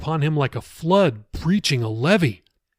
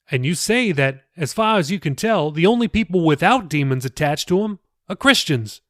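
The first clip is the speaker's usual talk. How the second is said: a touch higher, earnest explaining pastor; lightly voiced pastor; 4 semitones higher than usual. Pastor patiently explaining scripture to Jacob, lightly raised voice. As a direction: gently lift the voice for the pastor.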